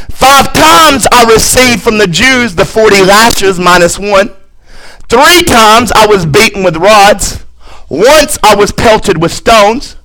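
forceful pulpit reading of a list; emphatic scripture reading. Acted. Preacher reading Paul's hardships to the church, emphatic scripture reading. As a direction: drive through each item, stacking them up.

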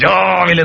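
elongated start to രാവിലെ; stretched word. Shown as a demonstration. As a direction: draw out the first vowel of രാവിലെ. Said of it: "ചോദിച്ചു കുട്ടികളോട്".

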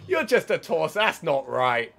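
loud high quick shout; shouting in disbelief. Real, not acted. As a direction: yell it again, half laughing at it. Shouting at a legless enemy.

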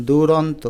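দুরন্ত said loud and clear, n closed onto t; careful pronunciation demo. Shown as a demonstration. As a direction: model দুরন্ত as du-ron-to. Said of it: "এভাবেও লিখতে পারো".

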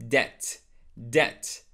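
DEBT with a silent B, like "det"; correct debt. Shown as a demonstration. Teacher modelling debt for learners, silent B. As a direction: drop the B in "debt". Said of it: "So that B is silent".

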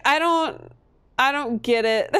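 self-mocking bafflement; mock confusion. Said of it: "I was like".

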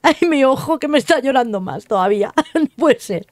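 real laughter with watering eyes; laughing. Real, not acted. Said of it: "con la risa". (riendo de verdad con lágrimas)

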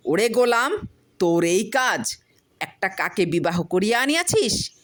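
angry wife shouting at her husband; furious scolding. Acted. Wife charges with broom.

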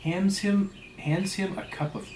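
measured, theatrical storytelling voice; story narration. A narrator's reading. Narrator reading a whaling tale aloud, story narration. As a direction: read it out with deliberate, rolling phrasing.

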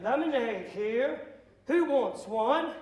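slow, dull hawking with no energy; generic vendor call. Retold or imitated. Bored vendor in the upper stands, slow and generic. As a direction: call out lemonade like you don't care. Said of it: "I was very generic".

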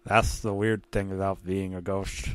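lightly voiced talking ghost cat; a hint of a ghostly character voice; ghost cat's voice. Tom's ghost speaks after death, lightly voiced ghost. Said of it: "but he had a voice".

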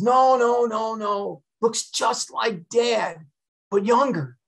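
high-pitched, insistent retold correction. Son correcting his mother about who he saw, high and insistent. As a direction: imitate an eager son, pitched well up.

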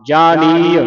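ਜਾਣੀਏ loud, with long drawn "ee"; lengthened vowel. Shown as a demonstration. Teacher modelling for a student, ਜਾਣੀਏ firmly with lengthened "ee". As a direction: stretch the "nee" in ਜਾਣੀਏ. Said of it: "ਇਹਨੂੰ ਲੰਮਾ ਕਰਨਾ ਹੈ".

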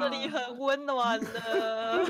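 slow, coaxing ghost voice; ghostly wail. Pretend. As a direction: lure them in like a ghost. Voicing ghosts luring player.

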